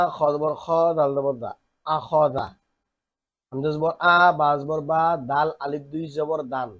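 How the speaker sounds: teacher reading aloud for the class to follow; recitation drill. Shown as a demonstration. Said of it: "শুনি কিভাবে পড়তে হয়". (ক্লাসে সুর করে বানান পড়া)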